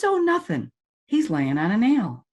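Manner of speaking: lightly voiced old farmer, high then slow; a hint of an unbothered farmer on the porch. Farmer to salesman, easygoing and unbothered.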